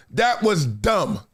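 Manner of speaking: "That is dumb" drawn out word by word; slow emphatic. Real, not acted. Host calling out a silly remark, slowly emphatic. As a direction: lay each word down slowly for weight. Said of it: "start calling everybody for what they are".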